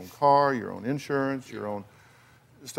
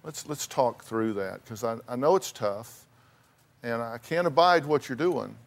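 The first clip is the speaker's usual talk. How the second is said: gentle fatherly; 4 semitones lower than usual. Pretend. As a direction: talk it through gently. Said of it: "sat down on the couch and said".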